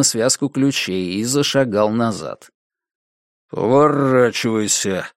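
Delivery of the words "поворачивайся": gritted-teeth order; through gritted teeth. A narrator's reading. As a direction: squeeze it through clenched teeth. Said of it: "процедил он сквозь зубы".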